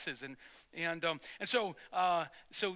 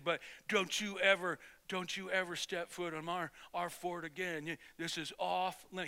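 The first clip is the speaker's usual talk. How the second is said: grudging, subdued anger; 4 dB quieter than usual. Retold or imitated. Bully who gave in warns the boys off, grudgingly mad. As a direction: quietly lay down the law, still sore. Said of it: "He was still mad, and he gave in".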